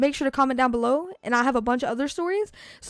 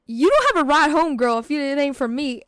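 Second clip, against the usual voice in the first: mild retold shock, louder at the start; kinda shocked; 4 dB louder than usual. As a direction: act out a brother's half-joking shock. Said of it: "but kinda shocked".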